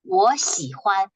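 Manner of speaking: slow, deliberate 我喜欢 for learners; slow model repetition. Shown as a demonstration. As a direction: draw out 我喜欢 slowly and clearly. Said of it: "You keep trying to say this".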